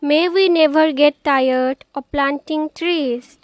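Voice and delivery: measured, deliberate poem reading; poem recitation. Acted. Poet reciting her poem on planting trees, measured recitation. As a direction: recite it phrase by phrase, with pauses.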